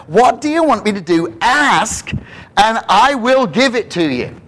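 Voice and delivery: Jesus asking the blind man. Acted. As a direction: offer it generously. Jesus' offer, voiced.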